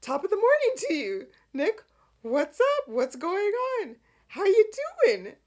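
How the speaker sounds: high, loud, hammed-up cheery greeting; very chipper. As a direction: imitate someone absurdly perky. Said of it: "Michael couldn't have been any more chipper".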